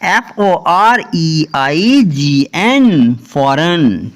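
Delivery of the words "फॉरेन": फॉरेन said with no G; silent G. Shown as a demonstration. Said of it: "फॉरेन इसको पढ़ना है".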